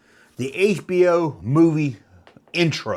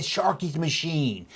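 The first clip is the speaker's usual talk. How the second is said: breathy whispered recording voice; whispered quote; 2 semitones higher, 5 dB quieter, slower than usual. Retold or imitated. Imitating the theater recording in a whisper. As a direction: whisper the title like the phone recording.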